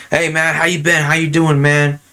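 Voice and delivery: high, upbeat buddy greeting; easygoing dude greeting. Retold or imitated. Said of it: "I change up my tone, too, to match them".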